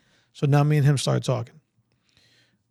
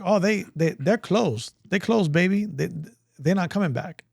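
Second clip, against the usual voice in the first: lightly voiced recruiter, pitched up; imitated Army recruiter; 4 semitones higher than usual. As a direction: brush them off as the hustling recruiter. Acting the Army guy again.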